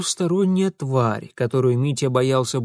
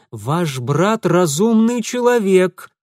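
louder, slow warning; warning raised voice; 5 semitones higher, 5 dB louder, slower than usual. Acted. Mitya warning loudly for the hidden man to hear. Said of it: "предостерегающе возвысил голос".

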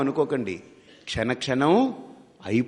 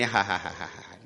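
imitated crowd laugh; a string of put-on ha-has; mock laughter; 8 semitones lower, 7 dB quieter, slower than usual. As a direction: laugh along as the bubbles, for show. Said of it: "వీళ్ళందరూ నవ్వుతుంటారు".

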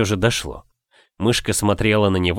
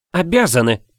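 higher, pointed retort; sharp objection; 7 semitones higher, 3 dB louder than usual. A narrator's reading. Wife contradicting the cook, sharply insistent. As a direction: snap back to insist. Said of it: "возразила Тиона".

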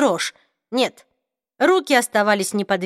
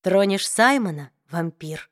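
very slow; 2 semitones lower than usual. Acted. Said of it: "очень медленно произнесла она".

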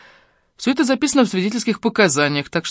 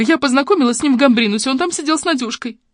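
high, whimpering account; acted tearful whine; sobbing; 8 semitones higher than usual. A narrator's reading. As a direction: tell it plaintively, voice pitched up. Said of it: "всхлипнула Фоменко".

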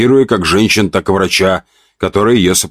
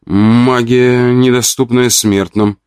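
calm; 4 semitones higher, slower than usual. Acted. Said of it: "спокойно ответила мелкая".

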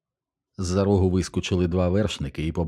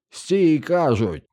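a much higher, louder shout cut off short; 10 semitones higher, 4 dB louder, much slower than usual. Acted. Stormtrooper shouting after the rider, loud yell. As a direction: bark the order from the steps. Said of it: "закричав штурмовик".

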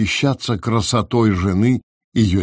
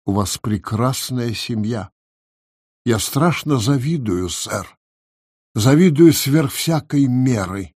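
earnest and heartfelt. A narrator's reading. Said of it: "очень серьёзно и проникновенно произнёс".

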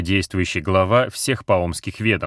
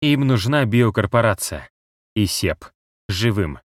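unsteady leaping pitch; voice jumping with tension; 3 semitones higher than usual. Acted. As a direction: strain making the voice skip. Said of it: "его голос скачет от напряжения и волнения".

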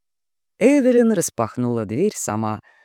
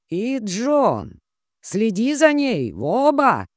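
threatening; 9 semitones higher, slower than usual. Acted. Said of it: "пригрозил Лэнгдон".

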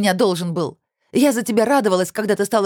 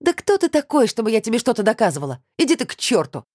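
furious; 7 semitones higher than usual. A narrator's reading. Olya's tearful fight continues.

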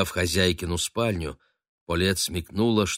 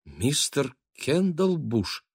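stunned; 7 semitones higher, much slower than usual. A narrator's reading. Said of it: "ошеломлённо повторила".

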